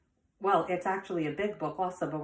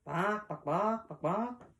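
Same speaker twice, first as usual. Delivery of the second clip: hen clucking; 3 semitones higher than usual. Acted. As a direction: run of short spoken clucks. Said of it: "What do chickens say?".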